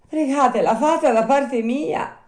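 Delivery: high, loud puppet plea; pleading Pinocchio. Acted. Puppet stuck in door begging the snail, high plea. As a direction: beg for rescue in a high voice.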